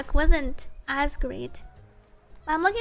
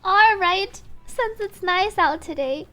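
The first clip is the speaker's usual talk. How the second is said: loud, higher acted protest with a laugh; playful singer; 5 semitones higher, 8 dB louder than usual. Singer coaxing companion not to go back, loud and lively. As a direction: push back brightly, then propose an outing.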